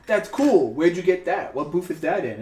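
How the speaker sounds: high, loud, eager question about a cool item; a fan at a con asking excitedly; excited stranger. Retold or imitated. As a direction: gush over someone's cool find.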